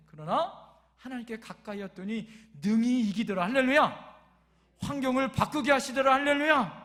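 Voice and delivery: rally the congregation with full force; rousing preaching. Real, not acted. Preacher proclaiming victory to the congregation, rousing shout.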